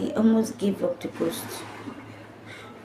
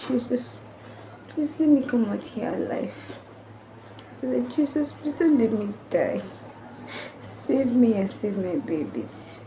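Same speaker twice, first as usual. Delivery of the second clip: tearful prayer; 3 semitones higher, 4 dB quieter than usual. Retold or imitated. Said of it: "I was crying".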